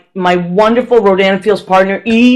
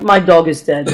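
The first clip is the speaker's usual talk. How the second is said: Russian neighbor; 5 semitones lower than usual. Retold or imitated. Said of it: "one of my Russian neighbors".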